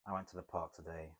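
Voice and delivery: subdued, downbeat reading; low, soft second tone. Shown as a demonstration. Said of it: "Second tone".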